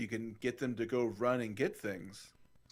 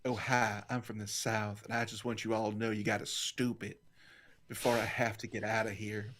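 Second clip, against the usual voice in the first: put-on Southern accent; 3 semitones lower than usual. Introducing oneself as a Southerner, light Southern accent. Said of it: "the only Southern accent I do".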